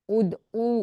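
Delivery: "ادعو" as ud-oo, the oo free of h; ain, no h. Shown as a demonstration. Teacher corrects the sister, "ادعو" with ain and no h. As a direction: go from the d of "ادعو" into a clean oo. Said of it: "یہ آئین ہے۔".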